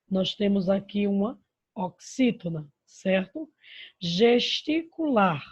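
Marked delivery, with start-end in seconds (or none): 4.0-5.4 "Gesticular" slow and louder, leaning on "lar"; stress on LAR. Shown as a demonstration. Teacher showing the strongest syllable, "lar" stressed in "Gesticular". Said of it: "O lar é a sílaba mais forte".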